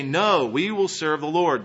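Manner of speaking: firm, mildly emphatic quoted vow; emphatic refusal. Retold or imitated. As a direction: quote the people's firm pledge. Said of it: "The people are emphatic".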